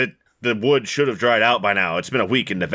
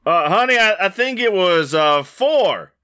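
higher, hesitant husband answering his wife; timid husband; 10 semitones higher, 4 dB louder than usual. Acted. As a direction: stammer it out to placate her.

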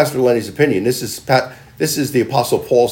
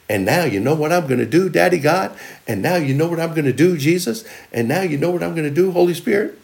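eager prayer; 4 semitones higher than usual. Acted. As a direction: lift each name like a question to God. Prayer turns eager, addressing God.

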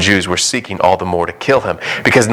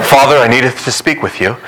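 mock formal child; 3 semitones higher than usual. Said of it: "I'd be like".

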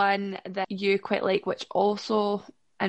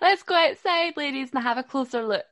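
put-on British accent; 4 semitones higher, 3 dB louder than usual. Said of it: "you're gonna play with a British accent".

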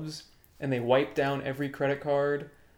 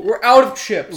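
exasperated clerk, pitched up; high, loud mock clerk; 6 semitones higher, 11 dB louder than usual. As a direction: blurt it like a worn-out cashier. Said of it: "They keep sending people".

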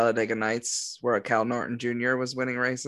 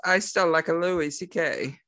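slightly higher mock-Italian plumber; lightly voiced Italian game character; Luigi; 4 semitones higher than usual. Italian plumber admits his favorite comedian, lightly put-on higher voice. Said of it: "if you ask Luigi who his favorite comedian is".

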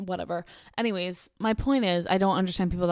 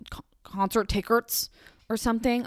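whispered correction; 3 semitones higher than usual. Real, not acted. Muttered correction.

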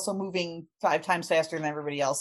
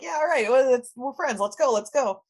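eager push; 6 semitones higher, 7 dB louder than usual. Retold or imitated. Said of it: "and he's like".

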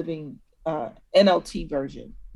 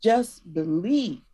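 put-on parent to child; 2 semitones higher than usual. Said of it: "You're talking to your child".

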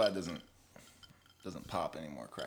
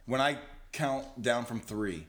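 hypnotist; 4 semitones lower than usual. Pretend. Plays hypnotist counting co-host awake.

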